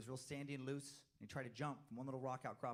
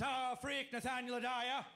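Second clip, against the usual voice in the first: put-on high, slow, louder old-fashioned farmer; 11 semitones higher, 4 dB louder, slower than usual. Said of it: "if that's how Amish people talk".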